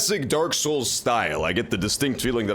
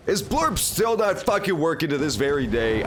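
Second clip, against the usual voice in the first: exasperated, higher-pitched complaint; mildly pissed off; 5 semitones higher than usual. Pretend. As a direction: complain as if fed up. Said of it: "I'm getting pissed off".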